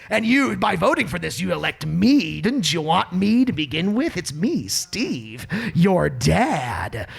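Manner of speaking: lightly voiced self-important politician; a milder, hammed-up politician impression; Steve Stenger. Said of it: "That's my Steve Stenger impression".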